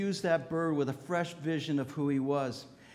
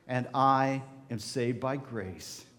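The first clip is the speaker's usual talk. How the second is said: slow affirmation; 4 semitones lower, slower than usual. Shown as a demonstration. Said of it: "Let's say it together".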